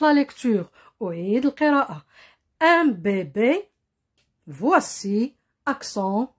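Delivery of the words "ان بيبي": "ان بيبي" read slowly with short closed é. Shown as a demonstration. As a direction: stop the vowels of "بيبي" short, as French é. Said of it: "قصيرة تنطق".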